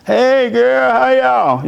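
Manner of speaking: high, bright mock of mom's hello; cheerful greeting. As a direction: chirp it like a happy aunt. Mother greets her sister.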